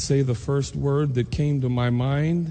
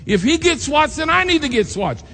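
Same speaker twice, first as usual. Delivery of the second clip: put-on pleading child; 13 semitones higher, 5 dB louder than usual. Boy pleads with teacher.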